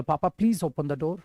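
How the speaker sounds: soft, slow, polite request. Shown as a demonstration. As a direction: ask papa nicely. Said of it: "और अच्छा है पापा". (पापा से नरमी से विनती करते हुए)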